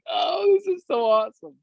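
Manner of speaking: high, gushing mock squeal; excited team squeal. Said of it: "this whole team of excited energy".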